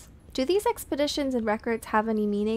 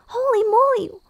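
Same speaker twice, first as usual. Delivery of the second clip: whispered surprise; 10 semitones higher, 7 dB louder than usual. Real, not acted. Surprise at game event.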